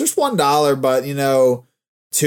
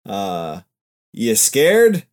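news anchor voice. Pretend. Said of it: "sounds like a fucking news anchor".

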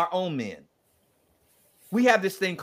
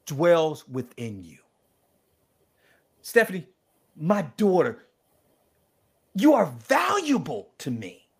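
speaking as God. Acted. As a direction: linger on each word like a loving father's promise. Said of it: "I'm gonna be God talking to you".

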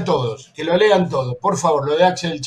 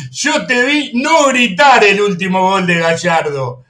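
cita burlona entre risas. Retold or imitated.

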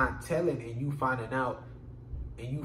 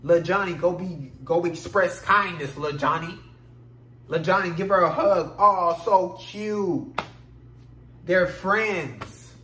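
cooing adult; 2 semitones higher, 4 dB louder than usual. Retold or imitated. Parents cooing at little boy.

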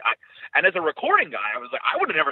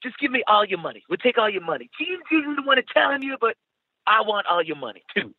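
put-on higher, greedy posh British accent; 10 semitones higher than usual. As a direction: demand the money in posh British. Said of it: "my really posh British accent".

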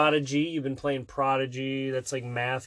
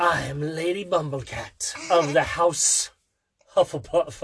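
mock grand introduction. Parent introducing a made-up superhero, mock grand.

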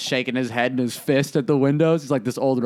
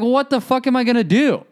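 retold panic; 10 semitones higher, 3 dB louder than usual. Retelling his panic at counter.

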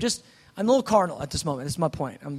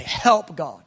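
retold cry for help; 3 dB louder than usual. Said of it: "I just begin to say".

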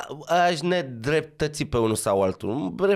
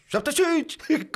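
co-driver calling notes; 11 semitones higher than usual. Retold or imitated. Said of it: "Și îi dicta".

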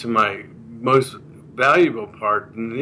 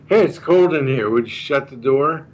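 demanding; 3 semitones higher than usual. Shown as a demonstration. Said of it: "that sounds like a demand".

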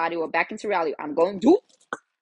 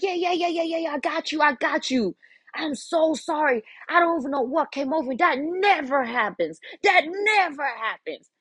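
grovel in a high little voice; anxious apology; 7 semitones higher than usual. Retold or imitated. Jenny apologizing to her coworker, high anxious pleading.

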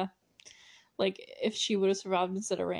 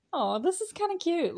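mock cooing; 8 semitones higher than usual. Voicing a character's thought.

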